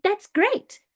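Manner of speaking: brief demo of high-pitched speaking. Shown as a demonstration. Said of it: "very high-pitched voice like that".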